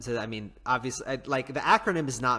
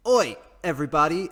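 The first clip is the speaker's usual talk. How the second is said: put-on a loud, rough go at an Australian accent like Chris Hemsworth; 4 semitones higher, 9 dB louder than usual. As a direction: belt out a clumsy Australian Oi. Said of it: "I can't do an Australian accent".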